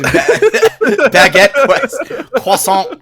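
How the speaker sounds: giggling; laughing through words. Real, not acted. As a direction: say it while cracking up. Repeating the joke laughing.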